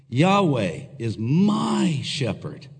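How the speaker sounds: slow, "my" drawn out; stress on my. Shown as a demonstration. Pastor declaring David's trust, stress on "my". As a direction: savour the word "my", slowly. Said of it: "the emphasis is on my".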